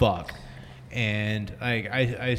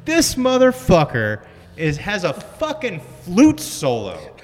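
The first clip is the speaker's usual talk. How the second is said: excited disbelief; 11 semitones higher than usual. Retold or imitated. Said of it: "and I was like".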